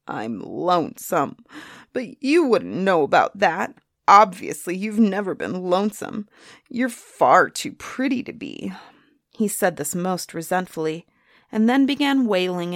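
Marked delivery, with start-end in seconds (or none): 0.1-8.7 cross growling griffin. A narrator's reading. The Griffin to Soonie, resentful and cross. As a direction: grumble it resentfully. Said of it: "he growled crossly".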